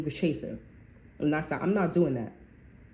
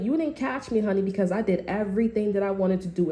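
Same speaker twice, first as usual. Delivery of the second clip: high-pitched mocking brush-off; sassy taunt; 3 semitones higher than usual. Taunting the boyfriend who thought he caught her, high and sassy. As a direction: toss it at him, pitched way up.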